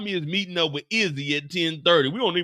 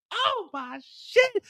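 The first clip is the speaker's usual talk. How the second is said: high, loud cries for help; terrified screaming; 3 dB louder, much slower than usual. Acted. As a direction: scream for help as bullets fly. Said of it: "She's like".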